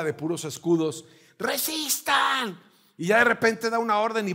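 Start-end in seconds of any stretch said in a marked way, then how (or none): 1.4-2.6 commander's order. Acted. Spartan leader to his soldiers, slow drawn commanding call. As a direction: hold the line, stretch every syllable.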